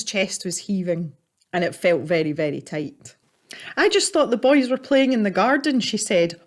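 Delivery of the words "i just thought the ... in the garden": hurried anxious mother. Acted.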